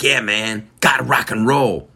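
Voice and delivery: imitating a confident rocker. Host quoting a rock-loving shopper, imitated confidence. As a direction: play her as totally into it, lifted on the last words. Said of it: "like, so confidently".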